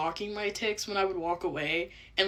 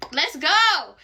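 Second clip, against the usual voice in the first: tic shout; 9 semitones higher, 9 dB louder than usual. Retold or imitated.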